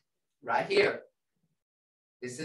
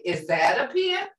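question tune; 4 semitones higher than usual. Shown as a demonstration. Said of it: "you're gonna say".

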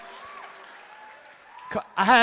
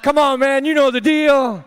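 higher, louder mock drill-sergeant order, slow at the end; scolding the tartar; 5 semitones higher, 4 dB louder, slower than usual. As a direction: bark orders at your tartar, hammed up. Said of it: "I'm like".

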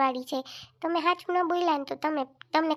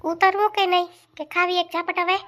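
put-on loud, sharp scolding of a child; mother shouting at her son on the stairs; 3 semitones higher, 5 dB louder than usual. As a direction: yell at the kid to get down.

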